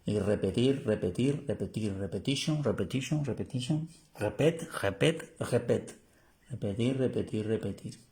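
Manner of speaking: chanted run of "repetir" and "repetition"; playful drill. Shown as a demonstration. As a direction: play with the word, chanting it again and again. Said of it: "Vuelvo y repito". (repetición juguetona de "repetir")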